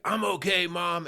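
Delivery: imitating a little boy bouncing back; toddler voice. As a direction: chirp it like a cheerful toddler. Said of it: "And he's like".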